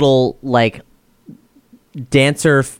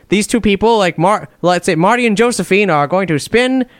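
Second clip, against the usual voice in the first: put-on Swiss accent; 5 semitones higher than usual. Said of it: "except in a Swiss accent".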